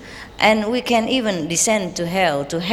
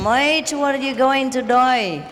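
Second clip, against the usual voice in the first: playful imitation of an Australian accent, pitched higher; mock Australian accent; 5 semitones higher than usual. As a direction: tease the questioner with a light Australian accent. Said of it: "Australian accent".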